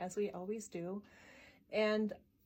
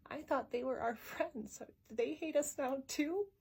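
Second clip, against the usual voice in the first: higher voice climbing into the question; lightly voiced child, rising at the end; worried child; 4 semitones higher than usual. Daughter asks mom about former friends, lightly voiced worried child.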